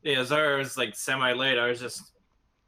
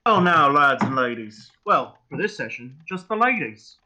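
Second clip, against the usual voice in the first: slow, loud, hammed-up British accent; a bad British host's greeting, drawn out; 8 dB louder than usual. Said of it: "my terrible attempt at any sort of British accent".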